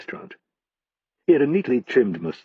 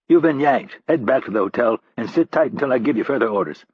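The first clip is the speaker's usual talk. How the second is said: curt order; 3 semitones higher than usual. Acted. Hurley ordering Rap off the job.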